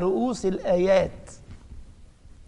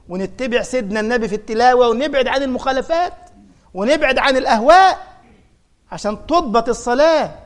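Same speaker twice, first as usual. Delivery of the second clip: rising exhortation; 3 semitones higher than usual. Real, not acted. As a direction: build the exhortation up to its peak. Preaching builds to a peak. (وعظ متصاعد بحماس)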